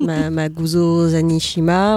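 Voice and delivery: slow made-up Japanese-sounding name; fake Japanese. Shown as a demonstration. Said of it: "c'est du faux japonais".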